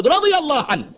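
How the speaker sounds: mock reverence. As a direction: ham up "radiyallahu an" as a pious blessing. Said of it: "they'll say".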